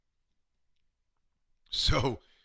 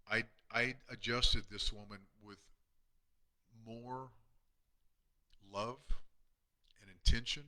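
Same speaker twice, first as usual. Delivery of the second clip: quiet emotional; 6 dB quieter than usual. Real, not acted. Emotional memory of last visit.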